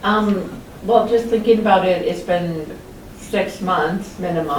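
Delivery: talking through a mouthful of food; words round a bite of food; mouth full. Real, not acted. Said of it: "I always catch you with your mouth full".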